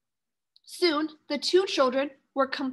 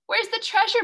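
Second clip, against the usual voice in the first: disappointed; 8 semitones higher, 3 dB louder than usual. Acted. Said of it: "Melinda said, disappointed".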